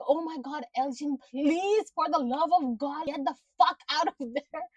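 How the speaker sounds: urgent high plea to a character; pleading with the screen. Retold or imitated. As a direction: plead with him to get out. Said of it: "I was literally like".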